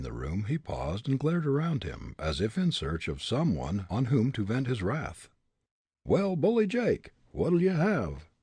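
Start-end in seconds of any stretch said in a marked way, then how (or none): 6.0-8.3 curt, higher, louder tavern keeper; frowning demand. A narrator's reading. Tavern keeper frowning at the ruffian, curt demand. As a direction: snap the question at the unwelcome ruffian. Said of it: "the tavern keeper demanded with a frown".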